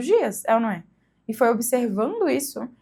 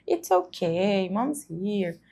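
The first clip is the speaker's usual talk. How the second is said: put-on soothing a crying child; 4 semitones lower, 3 dB quieter, much slower than usual. Shown as a demonstration. Comforting crying child, demo.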